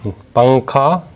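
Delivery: पंखा stretched very slowly, न sound clear; slow demo. Shown as a demonstration. Teacher sounding out पंखा for children. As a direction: draw out पंखा. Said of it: "न और मैं की आवाज़ में".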